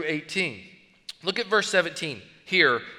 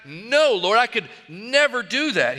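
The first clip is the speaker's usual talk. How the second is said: emphatic refusal; 2 semitones higher than usual. Acted. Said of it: "That's a strong, emphatic".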